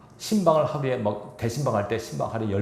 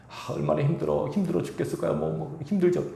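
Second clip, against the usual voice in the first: 안쓰러워하는 위로 흉내; 6 semitones higher than usual. Shown as a demonstration. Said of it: "이러지 마세요".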